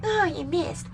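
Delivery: high-pitched mock letdown; mock disappointed people. People reacting to the failed shooting, mock disappointed. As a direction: whine of disappointment, imitated. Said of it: "all these people were like".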